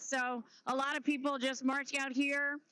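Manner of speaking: slightly winded reporter; out of breath. Real, not acted. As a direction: talk while short of breath from marching. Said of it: "I'm getting a little bit out of breath".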